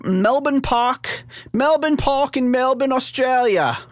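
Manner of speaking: high, drawn-out mock Aussie; Australian accent. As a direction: ham up a terrible Australian accent. Hammed Australian accent, then apologises.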